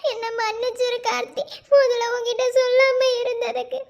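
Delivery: tearful confession, voice catching on a sob; breaking down while she admits it; crying. Acted. Girlfriend confessing to Karthi, tearful and breaking. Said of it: "சரி, சரி, அழுகாத".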